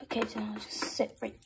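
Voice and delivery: soft hushed whisper. Pretend. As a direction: whisper as you sit down. Sitting near the nerd.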